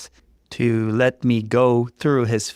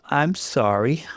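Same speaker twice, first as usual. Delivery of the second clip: through tears; 5 semitones higher than usual. Acted. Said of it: "I said through my tears".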